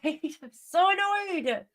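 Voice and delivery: drawn-out, laughing whine; slow mock annoyance. Real, not acted. Streamer laughing at her own annoyance, slow whine. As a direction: stretch it out in mock complaint.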